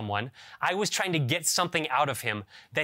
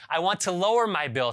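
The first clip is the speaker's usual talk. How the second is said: raised pitch, fed-up repeat of the request; exasperated; 4 semitones higher than usual. Retold or imitated. Caller repeating himself to the automated line, exasperated. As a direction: say it again, losing patience with the machine.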